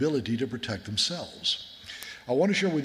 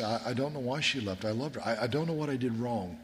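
bewildered; 4 dB quieter than usual. Retold or imitated. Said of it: "And he was bewildered".

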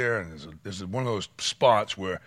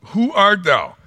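much higher, much louder, overdone innocence; Saul playing dumb; 11 semitones higher, 14 dB louder, slower than usual. Saul feigning ignorance to the Lord, loud fake innocence. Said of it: "and he said".

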